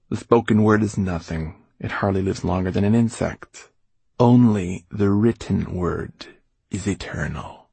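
bored. Acted. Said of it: "in a bored voice".

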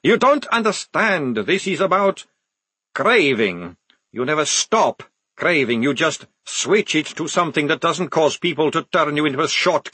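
intense, edgy vampire explanation; craving vampire. Acted. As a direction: plead like an addict needing coffee.

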